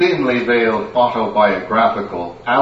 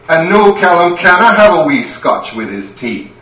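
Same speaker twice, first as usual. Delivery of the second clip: angry Scottish wife. Acted. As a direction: tear into him. Wife berates the lummox.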